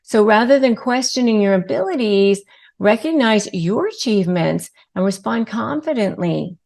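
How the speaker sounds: ordinary talk, nothing marked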